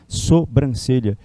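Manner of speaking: sobrancelha said slowly and carefully, syllable by syllable; slow demo pronunciation. Shown as a demonstration. Teacher drilling the spelling to students, slow and careful. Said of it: "Não existe M nessa palavra".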